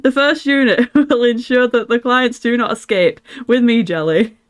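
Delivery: put-on northern English accent, in-character command; Yorkshire-leaning accent. Streamer reads the character's orders to Jelly, Yorkshire-leaning accent. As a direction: aim for Lancashire, land nearer Yorkshire. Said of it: "It's definitely more Yorkshire".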